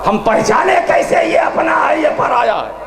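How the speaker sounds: high-pitched sermon oratory; impassioned, high-pitched pulpit delivery; full-force preaching. Acted. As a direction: ring out each rhetorical line to the crowd.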